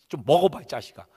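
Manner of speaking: brief loud outburst, then dropping; cross parent. Acted. Parent feeding a picky child, cross. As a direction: snap at a child in mock anger. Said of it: "이러면서 화를 내는 거예요".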